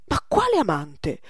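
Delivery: loud, emphatic retort; indignant retort. Acted. Old master dismisses Poussin's lover, indignant. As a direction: throw the question back indignantly.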